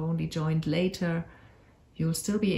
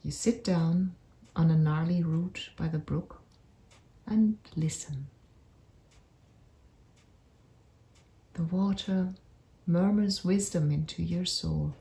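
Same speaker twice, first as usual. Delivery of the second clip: unhurried meditation voice with long pauses; guided meditation. Acted. Narrator leads listeners on a magical forest walk, guided meditation. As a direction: guide listeners gently through an imagined journey, leaving space between phrases.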